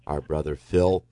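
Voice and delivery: prayer. Real, not acted. Host prays over the phone for a caller, prayerful. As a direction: pray gently for a friend in need.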